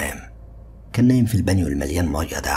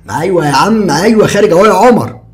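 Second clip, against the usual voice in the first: higher, louder casual call; Ziad calling out; 11 dB louder than usual. A narrator's reading. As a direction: answer carelessly from another room. Ziad answers from bathroom.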